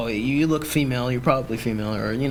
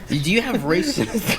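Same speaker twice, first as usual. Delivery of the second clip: higher-pitched, laughing as you ask; laughing question; 6 semitones higher than usual. Real, not acted. Teasing co-host about his baby, laughing. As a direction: barely get the question out through laughter. Cracking up at own absurd question.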